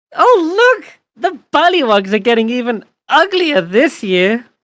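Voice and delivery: high-pitched voice. Voicing an unseen voice calling out from somewhere: higher-pitched voice. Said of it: "kind of higher pitched than the others".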